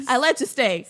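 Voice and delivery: said through a laugh; amused, laughing protest. Real, not acted. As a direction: laugh out the words. Laughing at her retort.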